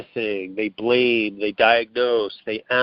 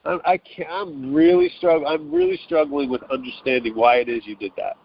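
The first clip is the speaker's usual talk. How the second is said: giraffe honesty; 4 semitones higher than usual. Retold or imitated. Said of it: "A giraffe would say".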